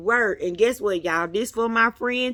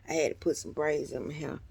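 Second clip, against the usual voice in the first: fast breathy whisper, unvoiced; a quick confiding whisper; 7 semitones lower, 10 dB quieter, faster than usual. Real, not acted. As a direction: whisper it like a secret to the viewers. Confides hair, whisper measured.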